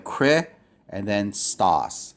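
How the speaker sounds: two pieces, "kri" and "stos", clusters kept whole; syllable by syllable. Shown as a demonstration. Teacher shows where Christos divides, separate syllables. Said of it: "clusters that can be kept together should be kept together".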